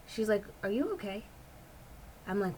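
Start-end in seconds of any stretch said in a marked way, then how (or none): 0.6-1.2 imitating broken English. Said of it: "in her kind of broken English".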